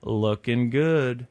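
a slow, low-key imitated ghost murmur; drawn-out creepy ghost line, lightly voiced. Ghost voice in retold haunting.

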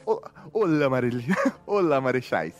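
put-on Portuguese with a light Spanish accent. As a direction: read it with a hint of Spanish accent. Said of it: "ler esse e-mail com sotaque espanhol".

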